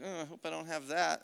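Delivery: soft, low-key mock reluctance; hushed imitation of dread; reluctant aside. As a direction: murmur it as if hoping to get out of it. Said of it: "I used to be like".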